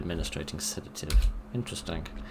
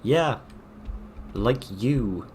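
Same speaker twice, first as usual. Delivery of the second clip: 1 mock agreement; 5 semitones higher, much slower than usual. Real, not acted. Taunting a game enemy.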